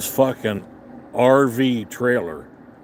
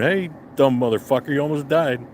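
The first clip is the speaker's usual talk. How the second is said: mild, raised-pitch mock yell; retold taunting holler; 4 semitones higher than usual. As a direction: call out an insult to a passing driver. Yelling at driver over horn.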